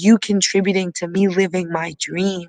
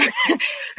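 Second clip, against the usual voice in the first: teary laugh; 4 dB quieter than usual. Real, not acted. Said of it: "I'm getting emotional".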